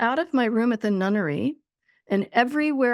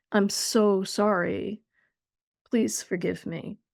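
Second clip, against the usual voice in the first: acted sobbing, crying voice; 3 semitones lower than usual. Retelling own apology to the pain, reenacting own sobbing. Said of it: "the sobbing".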